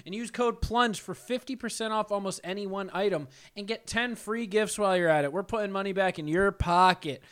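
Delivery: upbeat sponsor read, brisk; host reads the sponsor spot, upbeat. Acted. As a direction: sell it like a podcast ad.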